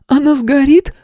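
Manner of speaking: put-on a scared child asking; whimpering little girl. A narrator's reading. Frightened girl asks the teacher about her mother. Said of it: "захныкала девочка".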